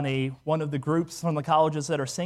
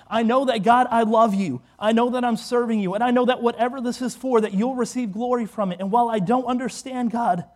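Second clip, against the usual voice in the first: higher, insistent declaration of faith; fervent prayer; 6 semitones higher, 4 dB louder than usual. Acted. Believer telling God of trust despite hardship, fervent prayer. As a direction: press on with rising conviction.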